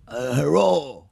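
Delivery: slow, drawn-out mock Asian accent. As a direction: imitate a heckler's bad Asian accent. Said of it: "some white dude will go".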